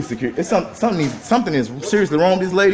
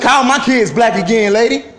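angry challenge; 4 semitones higher, slower than usual. Real, not acted. Father confronting woman over insult.

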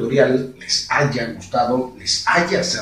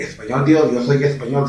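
Castilian accent at usual pitch; Spain Spanish accent. Shown as a demonstration. Showing step one to viewers, Castilian accent. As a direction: put on a Spain accent only. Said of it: "Español argentino, un paso".

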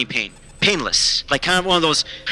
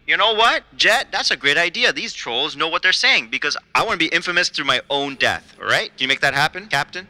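inner voice. Retold or imitated. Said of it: "and I'm thinking".

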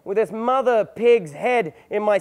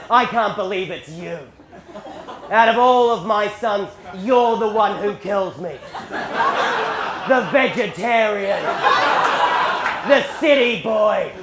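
slow, drawn-out contempt; appalled disbelief; much slower than usual. Retold or imitated. Dying dad to the son who killed him, appalled. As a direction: spell out each disappointment slowly.

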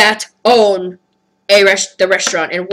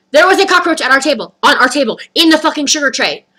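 higher, emphatic phrase-by-phrase repeat; insistent repetition; 4 semitones higher than usual. Retold or imitated. His mom saying the same thing to staff, insistent repetition. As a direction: hammer each location home separately. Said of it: "I keep repeating the words".

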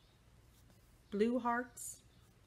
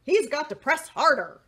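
louder firm voices; louder stern advice; stern crayons; 6 dB louder than usual. Acted. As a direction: lay down the law firmly. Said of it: "Army Green said".

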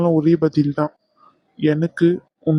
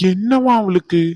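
angry outburst; 4 semitones higher, 3 dB louder, slower than usual. Acted. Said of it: "Raghu, கோவப்படாதன்னு சொன்னேன்".

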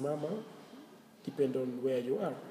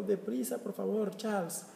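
urging a friend; 6 semitones higher than usual. Retold or imitated.

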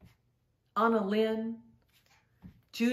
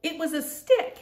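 excited reveal; 8 semitones higher, 5 dB louder than usual. Acted. Story reveal after long pause.

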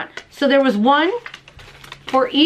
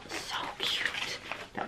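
whisper; 17 dB quieter than usual. Real, not acted. Admiring the card.

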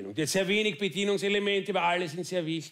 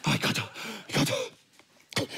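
panicked groan; 3 semitones higher, slower than usual. Acted. Man stuck in the caravan groaning in dread.

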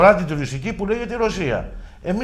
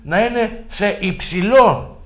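υψηλό drawn out slowly, higher, set in quotes; word in quotes; 5 semitones higher, 4 dB louder, much slower than usual. Real, not acted. Guest describing official meetings abroad, υψηλό slowly set in quotes. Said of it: "σε εισαγωγικά η λέξη".

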